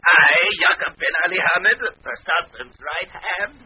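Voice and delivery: high, indignant vizier outburst; affronted old courtier, voice jumping up; offended. Acted. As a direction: puff up with wounded pride, in foreign accent. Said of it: "wait a minute, don't get mad".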